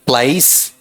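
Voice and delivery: "प्लाइस" as one syllable, PLAYS with an s; pronunciation demo. Shown as a demonstration. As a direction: say "प्लाइस" carefully, gliding vowel into s. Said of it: "पहले का उच्चारण क्या रहेगा".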